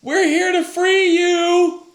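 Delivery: high, slow, booming royal proclamation; booming warrior king. Retold or imitated. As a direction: bellow it like a king from afar. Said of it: "so you're like".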